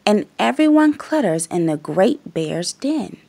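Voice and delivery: put-on lively read-aloud voice for little kids; storybook reading. A narrator's reading. Reading a picture book to young viewers, lively. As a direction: read it like bedtime story time.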